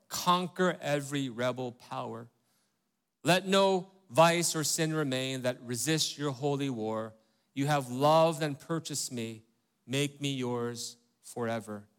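slow, solemn hymn recitation; hymn reading. Acted. Pastor reads the hymn verse to the congregation, slow and solemn. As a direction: read each line like a prayer. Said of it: "I love that part".

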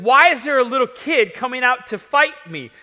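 loud, high-pitched disbelief; incredulous Goliath. Acted. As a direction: demand an explanation in offended amazement. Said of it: "can't believe this".

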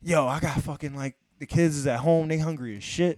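acted, insistent appeal; pleading sob story. Customer lying to the window girl about hungry kids, pleading. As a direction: lay the excuse on thick, imploring.

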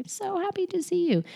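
soft, high-pitched sweet greeting; delighted greeting. Acted. Mother to her little ones every morning, delighted. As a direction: coo it happily to little ones. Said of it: "I say".

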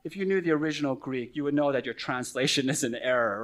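lightly imitated condescending pastor, a bit quick; a hint of know-it-all superiority; mock haughty tone. Mocking pastors who lecture about the Greek, lightly haughty. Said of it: "in a sort of haughty tone".

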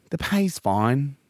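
slow, evasive reassurance. Pretend. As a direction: stall on the pay. Evasive recruiter stalling on pay.

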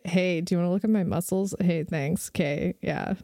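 laughing parody of a show-off; mocking Jacob. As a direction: lampoon him as a vain meathead. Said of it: "He's like".

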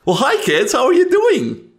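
high, loud, creepy greeting; fanged old man. Acted. Coffin creature greets the kids, very high and loud.

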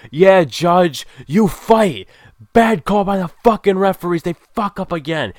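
reenacted angry fan yell, high and loud; screaming at the TV. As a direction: shout outrage at the referees through the screen. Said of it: "I'm screaming at the T V".

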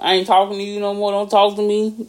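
lightly put-on rapper voice, mock hurt; a rapper's voice. Friend cutting off a card partner, mock-hurt rapper impression. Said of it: "You my rapper voice".

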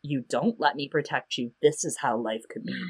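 veiled warning. Retold or imitated. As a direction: drop the pitch and volume for the grim alternative. Threatening option set against first.

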